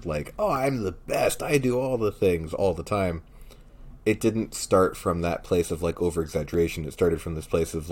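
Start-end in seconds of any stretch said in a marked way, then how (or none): 0.4-3.2 high-pitched whiny boasting, easing off at the end; whiny character. Acted. Podcaster imitating a could-have-been annoying character, whiny. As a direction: put on a whiny braggart, starting high. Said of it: "this whiny character".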